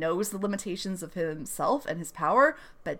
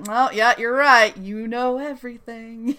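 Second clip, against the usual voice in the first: sarcastic agreement; 4 semitones higher than usual. Retold or imitated. Claire brushing off Peter, mock agreement. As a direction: humour the know-it-all.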